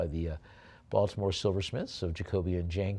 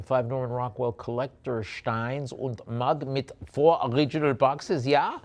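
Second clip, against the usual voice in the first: put-on German accent; 3 semitones higher than usual. Auctioneer reading a lot in mock German accent. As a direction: slip into a playful German accent on the lot description. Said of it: "why I started doing a German accent".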